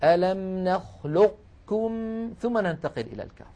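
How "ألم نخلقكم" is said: نخلقكم said very slowly with the qaf kept heavy before the kaf; partial assimilation demo. Shown as a demonstration. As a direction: hold the heavy qaf in نخلقكم, then cut off. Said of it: "يعني نطبق على قاف".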